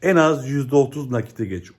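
calling out the index milestone to followers; shouting it out. Shown as a demonstration. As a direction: announce it like a town crier. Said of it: "bağıra bağıra her gün söyleyeceğim".

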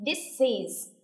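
"This is." with the s carried straight into "is"; linked this is. Shown as a demonstration. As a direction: model "This is." as one linked unit. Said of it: "âm Z nói qua âm is".

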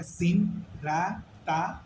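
"সিন, রা, তা" with thin s and open front aa; light, unrounded vowels in "রা" and "তা"; wrong light letters. Shown as a demonstration. Teacher showing forbidden letters, "সিন, রা, তা" said thin and light. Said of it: "বলার সুযোগ নাই".

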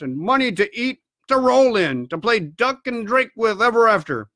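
boastful squire carried away by treasure; excited squire. Acted.

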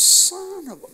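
the man starts to cuss and stops short. Retold or imitated. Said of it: "He start cussing".

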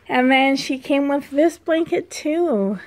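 slightly winded; talking a bit out of breath. Real, not acted. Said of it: "Oh, I am out of breath".

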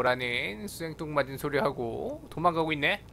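ordinary talk

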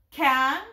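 kan-ga-roo said in three separated beats; teacher modelling kan-ga-roo beat by beat; split into syllables. Shown as a demonstration. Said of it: "have them split that into syllables".

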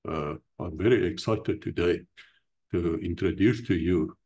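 put-on proper English accent, held back; mock proper English. Shown as a demonstration. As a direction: lightly mimic a proper English gentleman. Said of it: "speak proper English in a certain way".

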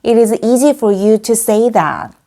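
slow model reading with "you" stressed after "for"; teacher's slow example, stress kept on "you"; stressed model sentence. Shown as a demonstration. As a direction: give "you" its stress in a slow, deliberate demonstration. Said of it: "강세까지 살려서 말해볼까요".

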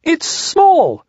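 a small voice crying out in discovery; cried. Acted. Piglet crying out on finding Small, high. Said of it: "cried Piglet".

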